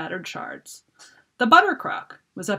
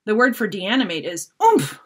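shouted; 3 semitones higher, 5 dB louder than usual. Acted. Shouted instruction continues.

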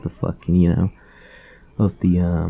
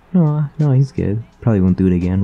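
lightly voiced mom; 3 semitones higher, 5 dB louder than usual. Mom voiced dismissing concern.

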